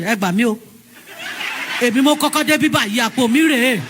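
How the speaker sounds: calling out in Yoruba, laughing; mock shouting for help. Woman calling Yoruba men to help in the motor park, shouting. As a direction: cry out for help half laughing. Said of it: "I started shouting".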